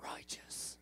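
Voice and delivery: slow whispery surfer-dude "we are righteous"; Southern California. Pretend. Pastor joking to the church, in a hushed surfer-dude voice. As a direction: drawl it like a laid-back SoCal surfer. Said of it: "like Southern California person".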